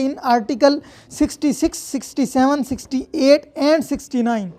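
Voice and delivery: very slow, every word spelled out for notes; slow deliberate statute reading; slow dictation. Shown as a demonstration. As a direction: read it so students can write it down. Reads statute text aloud.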